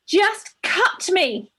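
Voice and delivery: slow, high desperate cry; urgent shout. Retold or imitated. Woman in labour shouting at the midwife, desperate. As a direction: beg them to just cut. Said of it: "I believe I urgently shouted".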